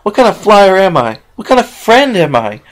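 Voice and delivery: high, loud, tearful outburst; tearful self-blame. Acted. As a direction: rail at herself through tears. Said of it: "Tears streamed down her face".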